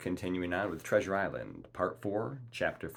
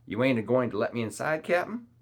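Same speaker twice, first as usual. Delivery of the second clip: high, quick, loud protest; complaining; 6 semitones higher, 6 dB louder than usual. A narrator's reading. Long John asks captain to let him inside, complaining. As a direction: complain with a rising, pleading question. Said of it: "complained Long John".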